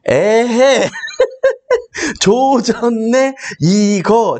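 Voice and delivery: high "에헤" broken by a laugh, then slow "조졌네"; laughing through the meme. Retold or imitated. Streamer tells viewers what to search, laughing through the line. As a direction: try the line but crack up midway. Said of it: "유튜브에 ... 치잖아요".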